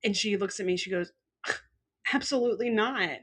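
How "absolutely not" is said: firm, higher retold refusal; appalled. Therapist rejecting that locked fridges are normal, appalled. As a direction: imitate a scandalized flat denial.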